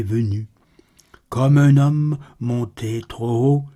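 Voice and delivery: measured, solemn verse reading with pauses; poem recitation. Acted. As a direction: recite the verse evenly, pausing between phrases. Recites a poem after spoken introduction.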